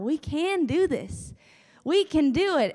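smiling preacher pep talk; beaming pep talk. Acted. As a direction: cheer them on through a big grin. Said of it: "like Pastor Joel Osteen with a big smile".

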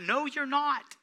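ordinary delivery

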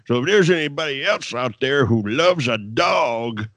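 slurred, spitting imitation of a yelled promo; mock yelling. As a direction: spit it out like a ranting wrestler. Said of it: "just spitting off at the mouth, and he yells about it".

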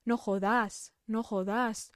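"jodas" with its final -as stressed and held; Paisa-style weight on the last sound of "jodas"; stress on last syllable. Shown as a demonstration. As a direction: lean on the end of "jodas". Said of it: "أنا شددت على آخر حرفين في الكلمة".

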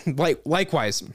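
choking on a drink; coughing, throat catching. Real, not acted. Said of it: "Excuse me, I'm choking here".

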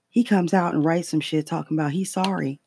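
ordinary talk

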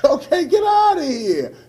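laughing. Retold or imitated. Retelling the rejection, laughing.

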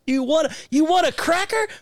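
high coaxing pet voice; parrot owner voice. Pretend. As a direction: coo at a bird. Talking to a parrot.

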